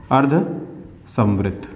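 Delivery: stretched, soft spelling-out; slow dictation. Shown as a demonstration. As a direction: dictate अर्धसंवृत syllable by syllable. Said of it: "चौथा है".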